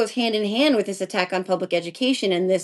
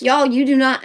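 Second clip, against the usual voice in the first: friend's Southern twang, higher and louder; imitated Southern accent, raised and emphatic; 4 semitones higher, 5 dB louder than usual. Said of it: "I'm giving her a Southern accent".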